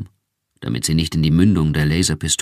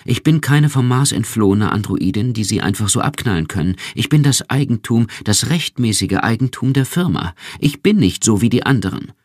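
frightened; 6 semitones higher than usual. A narrator's reading. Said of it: "Erschrocken ergänzte sie".

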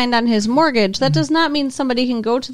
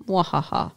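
short mock villain cackle, imitated lightly; a quick hammed-up evil laugh; maniacal laugh; 5 semitones lower, 6 dB quieter than usual. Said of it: "He does a maniacal laugh".

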